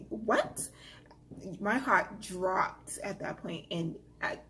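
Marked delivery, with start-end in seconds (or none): 0.1-0.7 a breathless, voiceless "what?" in disbelief; stunned whisper. Retold or imitated. Reading a threatening text about her daughter, stunned whisper. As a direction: whisper it like the floor just dropped. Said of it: "And I was like".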